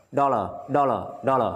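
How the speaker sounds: "dollar" linked up, ending in a schwa without R; silent final R. Shown as a demonstration. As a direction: join the syllables of "dollar", drop the last r. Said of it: "Chữ R sau, không đọc, nối âm thôi".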